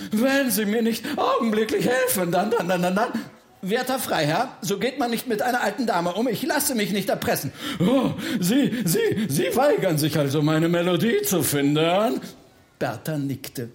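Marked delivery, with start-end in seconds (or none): 0.1-3.1 high start, sputtering out on repeated words; threaten, then run out of words; spluttering threat. Acted. Baron threatens Bertha and falters, spluttering. 3.6-7.5 fast, higher-pitched rebuke; indignant old lady. Acted. Old lady refuses baron's blackmail, indignant. 7.8-12.2 stammering, outraged question; affronted ghost baron. Acted. Baron faces Bertha's refusal to find melody, affronted.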